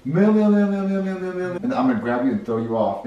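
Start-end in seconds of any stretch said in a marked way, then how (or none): 0.1-1.6 high squealed meows, easing off; rat's meowing. Shown as a demonstration. Director shows the rat at the snacks, squealing. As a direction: squeal a long string of meows. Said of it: "they go".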